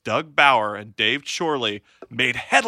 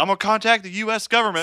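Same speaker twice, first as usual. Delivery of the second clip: higher, quick mock farmer indignation; imitated farmer; 5 semitones higher, faster than usual. Farmer threatening to call government, mock indignation. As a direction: play the farmer making a hasty vow.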